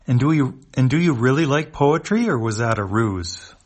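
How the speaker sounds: dog alien voice. Acted.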